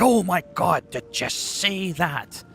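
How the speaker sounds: imitating his own hyped-up gaming voice; hyper gamer. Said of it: "when I'm not getting all hyper".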